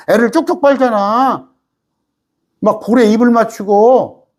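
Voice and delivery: usual speaking voice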